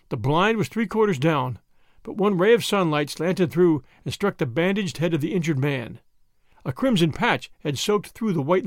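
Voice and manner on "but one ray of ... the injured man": ordinary delivery, nothing marked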